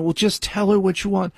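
mock the well-meaning women who tell him this; a hint of an impatient woman's voice; women's advice quoted. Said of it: "women always say to me".

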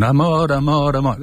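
poem recitation. Acted. Scholar quotes the end of Lorca's poem, lightly recited. Recites the poem's closing words.

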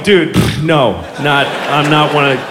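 a hint of an annoyed pony muttering; low, fed-up pony complaining; pony's voice. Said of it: "it's totally going".

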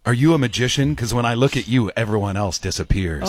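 straight-faced come-on, sinking low; pickup-line voice. Acted. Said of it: "why do I do it in that voice".

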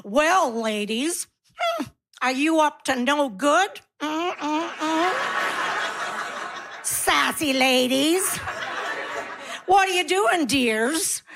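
lightly voiced sleazy flirt, slow and teasing; a hint of a creepy charmer hitting on ladies, chuckling. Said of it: "They're like".

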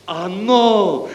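blissful, high, drawn-out sigh of a word; director's happy exhalation; happily breathed. A narrator's reading. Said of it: "dýchl šťastně ředitel".

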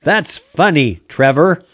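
lightly voiced robot sidekick; a hint of a canned AI voice. Shown as a demonstration. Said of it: "So I can do things like".

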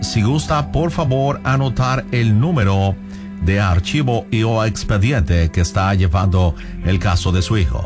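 ordinary delivery

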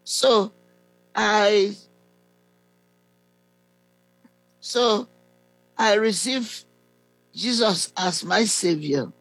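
halting prayer, phrase by phrase; prayer leading. Real, not acted. Preacher leading a confession of Jesus as Savior, prayerful and halting.

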